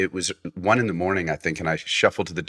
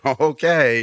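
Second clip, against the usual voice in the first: nervous giggle; 6 semitones higher, 7 dB louder, slower than usual. Retold or imitated. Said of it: "I get, like, nervously giggly".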